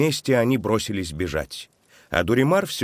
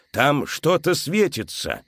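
slow wondering pointing out; 7 semitones higher, slower than usual. A narrator's reading. Alessandro pointing.

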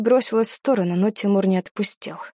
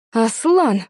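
mild roar; 4 dB louder than usual. A narrator's reading. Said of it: "взревела мама".

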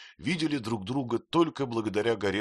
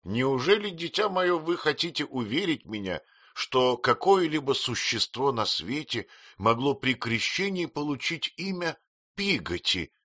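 indignant aunt; 7 semitones higher than usual. A narrator's reading. Aunt ridicules the servant's name, indignant. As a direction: scoff at the name.

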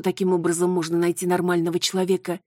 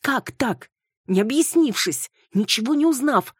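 indignant complaint; 8 semitones higher, 5 dB louder than usual. Acted. Retelling the unfair accusations.

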